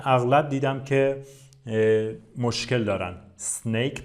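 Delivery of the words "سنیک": "سنیک" straight from s into n; correct s onset. Shown as a demonstration. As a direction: begin "سنیک" without any vowel. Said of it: "پس به معنای مار این شکلیه". (تلفظ «سنیک» با شروع از سین)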